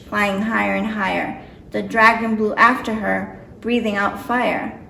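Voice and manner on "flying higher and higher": usual speaking voice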